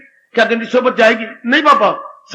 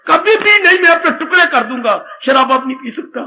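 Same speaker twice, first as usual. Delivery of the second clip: vehement vow; 5 semitones higher than usual. Acted. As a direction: swear it off forever. Acted vow. (ऊँची आवाज़ में ज़ोरदार क़सम)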